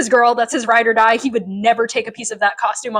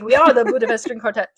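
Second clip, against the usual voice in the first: quick mock German accent; lightly imitated German, said briskly; faster than usual. The speaker introducing the quartet, quick mock German accent. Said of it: "German, I think".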